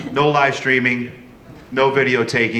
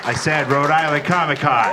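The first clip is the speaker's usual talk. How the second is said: rousing crowd call; 2 semitones higher than usual. Real, not acted. Host repeats the greeting to get the crowd going, rousing call. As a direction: call it out to rouse the whole hall.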